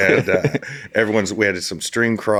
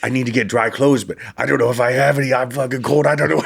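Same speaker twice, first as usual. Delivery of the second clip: higher, fast whiny complaint; freezing buddy whining, voice pitched up; 6 semitones higher, 3 dB louder than usual. Retold or imitated. Naked buddy whining about cold.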